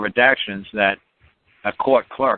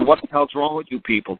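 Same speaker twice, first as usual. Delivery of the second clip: a sudden higher, exasperated yell at her; exasperated outburst; 9 semitones higher than usual. Retold or imitated. Mocking the caller who cannot say simple words, exasperated. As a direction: snap at her in disbelief.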